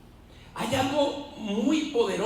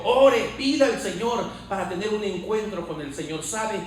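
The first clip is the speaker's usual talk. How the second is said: rhythmic preaching building to a loud, raised peak; impassioned sermon crescendo; fervent preaching; 4 dB louder than usual. Real, not acted. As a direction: drive each repeated phrase harder, like a preacher rousing the congregation.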